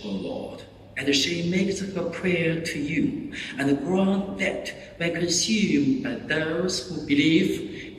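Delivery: cathedral echo. Real, not acted. Priest praying at Mass.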